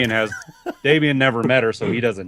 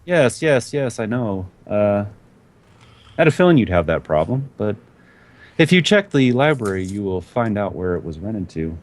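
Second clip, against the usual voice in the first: higher, knowing and sweet NPC woman; Anne's voice; 4 semitones higher than usual. Acted. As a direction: answer like she expected it all along. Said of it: "She's just like".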